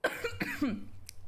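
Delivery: choking cough; water down the wrong pipe. Real, not acted. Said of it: "some water went down the wrong way".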